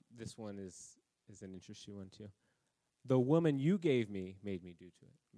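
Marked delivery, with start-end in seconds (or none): 3.0-5.4 louder, pointing the finger at her; Adam's mock accusation, loud; loud blaming protest. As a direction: throw the blame out hard. Adam blaming Eve.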